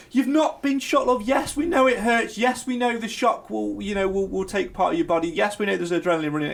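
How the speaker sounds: fed-up mock reprimand; exasperated scolding. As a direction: scold a drama queen, starting high and easing down. Exasperated scolding of the mocked contestant.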